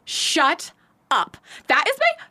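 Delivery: put-on high, gushing Valley Girl accent; over-the-top Valley Girl drive-through worker. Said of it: "if I did Valley Girl".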